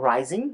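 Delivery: "rising" with the pitch climbing at the end; rising intonation. Shown as a demonstration. Teacher naming the first intonation type, rising tune. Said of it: "three types of intonation".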